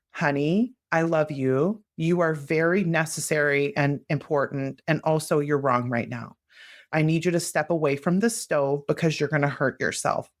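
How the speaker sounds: kind but firm parent voice; love it, then say a firm no; gentle parent setting a limit. Shown as a demonstration. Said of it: "The parental voice is kind and accepting with a firm no".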